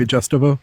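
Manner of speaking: Justivo with a J, JUST-ih-vo; deliberate wrong Justivo as payback; mock mispronounced name. Shown as a demonstration. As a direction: tease him by saying Justivo with a J. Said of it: "We, we, we say Justivo".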